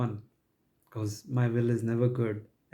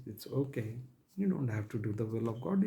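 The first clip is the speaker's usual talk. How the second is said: much softer, soothing false assurance; mock reassurance; 9 dB quieter than usual. Preacher voices the devil's doctrine excusing believers, softly reassuring. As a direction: quietly let them off the hook.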